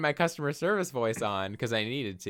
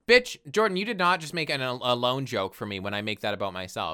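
hammed-up offended outburst; mock outrage; 3 semitones higher, 5 dB louder than usual. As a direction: tell them off in mock indignation. Mock scolding over a joke.

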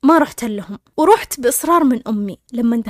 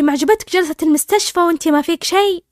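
mildly scolding, raised pitch; 5 semitones higher, 3 dB louder than usual. Retold or imitated. Husband scolds his wife on the phone, mock scolding. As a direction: give a higher, reproachful challenge. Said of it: "وزوجي يتصل يهاوشني".

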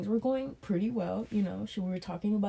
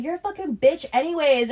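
mock spiteful date; 7 semitones higher, 7 dB louder than usual. Date insults him as Uber arrives.

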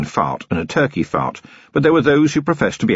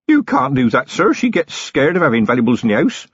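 alarmed protest; 7 semitones higher than usual. A narrator's reading.

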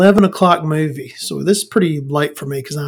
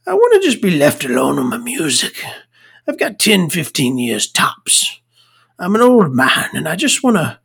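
hammed-up mock-Irish old man pleading to be left alone; Brendan Gleeson, bad Irish accent. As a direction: grumble in a wobbly attempted Irish accent. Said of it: "I can't do an Irish accent".

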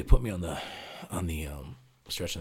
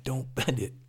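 higher, louder urgent plea; mock-urgent don't bend it, pitched up; retold urgent plea; 9 semitones higher, 6 dB louder, slower than usual. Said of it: "I'm like".

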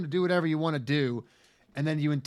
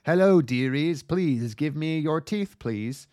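put-on spooky old woman; 4 dB louder, slower than usual. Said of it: "a spooky old woman appears and says".

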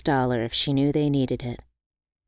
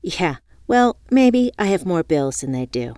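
retorting; 4 dB louder than usual. Acted. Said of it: "I retorted".

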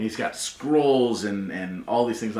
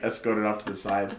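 usual speaking voice

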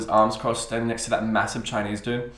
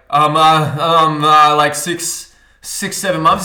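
nervous stammer; 3 semitones higher, 9 dB louder, much slower than usual. Retold or imitated. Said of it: "I'm fucking stuttering".

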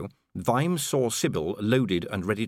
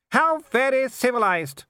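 high, loud, slow disdain; haughty scorn; 5 dB louder, slower than usual. A narrator's reading. Baroness answers the armed intruders, high and scornful. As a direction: draw it out with aristocratic scorn.

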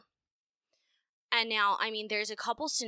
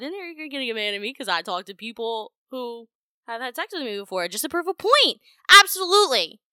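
much higher and louder, fast furious rant; furious telling off; 4 semitones higher, 8 dB louder than usual. Retold or imitated. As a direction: let him have it, loud and fast. Telling off angry ex.

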